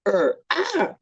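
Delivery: playful "er, ah" bear sound; mock bear growl. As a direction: throw in a pretend bear growl. Mimics bear after the slogan.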